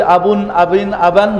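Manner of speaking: আবুন, আবিন, আবান said slowly and clearly, each ending un, in, an sounded distinctly; tanween endings demo. Shown as a demonstration. Teacher shows students the three tanween endings, clear demo. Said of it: "যখন আমরা বলছি".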